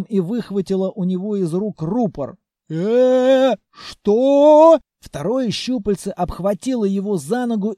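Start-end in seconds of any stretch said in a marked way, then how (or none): 2.7-4.8 startled. Acted. Groom startled.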